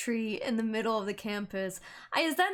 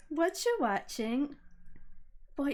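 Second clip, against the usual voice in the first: mild imitation; 3 dB quieter, slower than usual. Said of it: "Why did you say it like that?".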